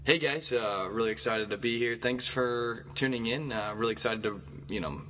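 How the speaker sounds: upbeat mock show opening; hammed-up host intro. Shown as a demonstration. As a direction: pretend the show just started. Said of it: "I'll give you an example".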